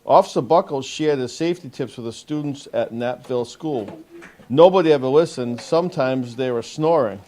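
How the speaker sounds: measured picture-book read-aloud with lifted key words; storybook narration for a young audience; reading to children. Acted. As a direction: read it out clearly to a group of young kids. Officer reads picture book to children.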